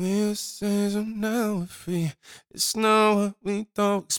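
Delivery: reluctant, hushed voice in a stage whisper. Preaching, acting out people afraid to confess aloud: imitating someone half-whispering. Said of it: "So you whisper".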